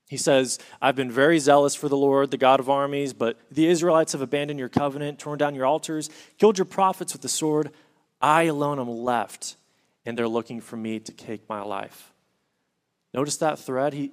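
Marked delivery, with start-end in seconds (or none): 0.8-12.1 an honest, aggrieved outpouring; heartfelt complaint. Acted. Elijah pouring out his complaint to God, urgent and fast. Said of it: "it doesn't sound like a rehearsed line".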